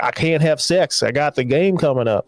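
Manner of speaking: lightly put-on Southern accent; botched Southern accent. Retelling football player refusing his girlfriend, faint Southern accent. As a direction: attempt a Boston jock, land on Southern accent. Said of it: "I'm doing a Southern accent".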